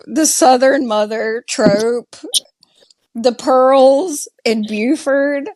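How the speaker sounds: under the breath, unvoiced; a whispered wry aside. Real, not acted. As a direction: drop to a whisper for the trope.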